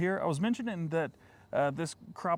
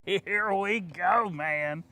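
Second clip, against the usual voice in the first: drawn out; 4 semitones higher, much slower than usual. Pretend. Hyping up the next clip.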